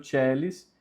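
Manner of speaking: "celis" with the A left silent, said as CHEH-lis. Shown as a demonstration. Teacher showing learners the silent A in "celis", pronounced CHEH-lis. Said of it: "ele é mudo".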